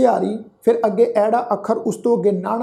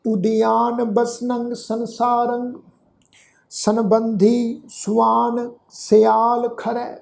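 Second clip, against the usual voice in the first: slow, measured verse reading with held vowels; drawn-out devotional reading; scripture recitation; much slower than usual. Shown as a demonstration. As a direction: recite the sacred verse slowly, stretching the endings.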